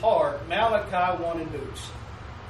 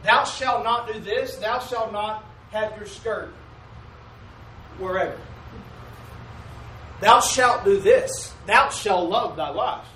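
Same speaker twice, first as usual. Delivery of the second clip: mock commandments; slower than usual. Preacher mocking legalistic commandments.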